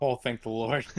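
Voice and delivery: relieved cheer. Real, not acted. Player relieved after a good roll.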